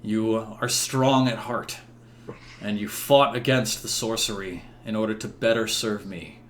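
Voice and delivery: formal royal verdict, swelling at key declarations; proclaiming king. Acted. King absolves knights and condemns the enchanter, proclaiming. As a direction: pronounce judgment to the whole court.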